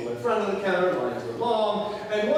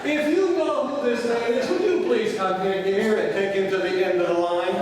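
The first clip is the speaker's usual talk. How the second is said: louder public-address announcing; mock announcement; 4 dB louder than usual. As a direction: announce it to the whole terminal. Mock airport announcement to crowd.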